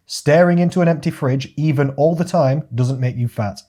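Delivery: laughing while reading. Retold or imitated. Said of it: "it says directly".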